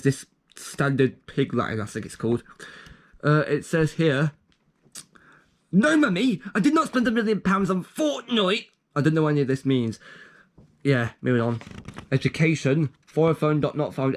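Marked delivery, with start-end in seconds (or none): 5.7-8.7 put-on child pleading.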